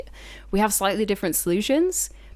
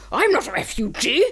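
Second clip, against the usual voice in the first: indignant British guy; 4 semitones higher, 4 dB louder than usual. Retold or imitated. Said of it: "there was this one British guy".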